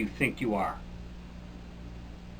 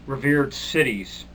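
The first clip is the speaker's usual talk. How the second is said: "revered" drawn out slowly with irony; slow ironic "revered cities"; sarcastic stress; slower than usual. Acted. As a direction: lean slowly on "revered" mockingly.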